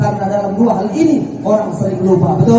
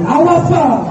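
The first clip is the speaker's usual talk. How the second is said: cold refusal; 6 semitones higher, 3 dB louder than usual. Acted. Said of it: "Ditunjuknya muka suaminya".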